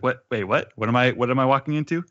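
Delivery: surprised. Acted. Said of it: "she's surprised by this".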